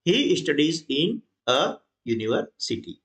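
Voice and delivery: each word read out slowly with the a; slow, deliberate classroom reading; slow dictation. Shown as a demonstration. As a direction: spell the corrected sentence out slowly. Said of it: "तो ये आ गया".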